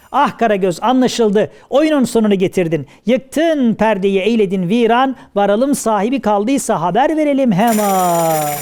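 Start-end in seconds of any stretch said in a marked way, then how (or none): 3.1-8.5 drawn-out ceremonial declamation; declaimed closing verse. Acted. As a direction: stretch out the verse endings. Closing verse of shadow play. (uzatarak kapanış beyti söyleme)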